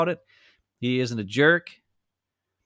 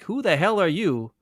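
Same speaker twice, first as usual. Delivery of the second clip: mock outraged fans; 3 semitones higher, 3 dB louder than usual. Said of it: "the Jets fans are like".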